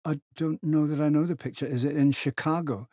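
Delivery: a touch of puzzled doubt; uncertain. A narrator's reading. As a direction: sound mildly unsure of the facts. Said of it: "McMaster said uncertainly".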